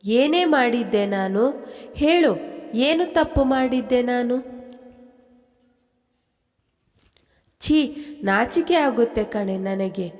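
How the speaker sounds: mild tearful pleading to a false friend; a touch of weeping in the accusation; crying reproach. Acted. Anuja crying at her friend, mildly tearful and hurt. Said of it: "ಅಳುತ್ತಾ ಹೇಳುವಳು".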